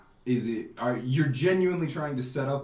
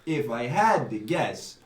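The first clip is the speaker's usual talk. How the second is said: put-on Italian accent. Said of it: "I do one Italian accent".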